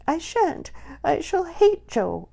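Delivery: put-on shrieking rage of a hurt girl; furious. A narrator's reading. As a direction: spit it out in a fury. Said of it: "Lily was furious".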